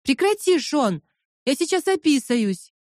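high, giggling protest; laughing plea. Acted. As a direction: beg through the tickling laughter. Laughing while being tickled. (сквозь смех)

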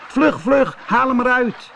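high, hurried call to act fast; boy urging friends to rescue kitten; urgent child. A narrator's reading. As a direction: urge them on like a scared boy.

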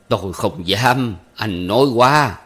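slow, dry, sarcastic refusal; cool sarcasm. Acted. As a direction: turn down the flattery coldly and slowly. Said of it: "lắc đầu mát mẻ nói".

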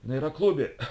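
a choked coughing line. Acted. Полупридушенный агент, откашливаясь. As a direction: cough the words out. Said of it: "откашлялся Хьюго".

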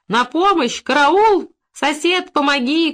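high, loud cries of alarm; urgent high-pitched calls for help; screaming for help. A narrator's reading. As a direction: shout for the neighbour to rescue you. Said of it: "кричала она".

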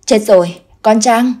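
a loud sudden cry of alarm; father realises his daughter is in danger; alarmed blurt. Acted. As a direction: blurt it out in dread. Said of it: "Chú vội thốt ra một câu".

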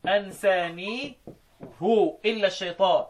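أنسانيه drawn out as ansanihu; damma on the ha. Shown as a demonstration. Teacher demonstrating Hafs's reading, damma on أنسانيه. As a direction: end أنسانيه on a slow hu. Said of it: "بالضم".

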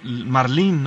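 "marlín" with the stress on final LÍN; stress on last syllable. Shown as a demonstration. Host asking the expert how it is said, end-stressed "marlín". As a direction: lean on the second syllable of "marlín". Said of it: "con acento en la I y el énfasis en ella".

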